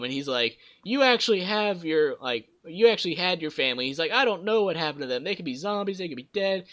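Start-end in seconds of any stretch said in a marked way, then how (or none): 0.8-3.9 mildly heated retold outburst; Ben. Retelling Ben tearing into Kenny, mildly worked up. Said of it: "tears into him". 4.1-6.6 higher, agitated mock rant at normal volume; Ben. Retelling Ben's rant about his family, mildly frantic. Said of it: "this whole yelling".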